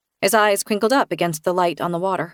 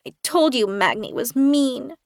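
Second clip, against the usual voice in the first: put-on child voice; 5 semitones higher than usual. A narrator's reading. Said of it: "he said".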